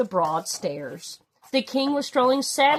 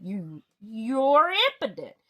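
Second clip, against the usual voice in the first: harsh; slower than usual. Acted. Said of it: "said Lord Droon harshly".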